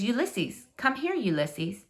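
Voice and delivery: soft, slow coaxing; hushed call to a squirrel; gentle coaxing call. Acted. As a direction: lure him in gently. Girl calling squirrel softly.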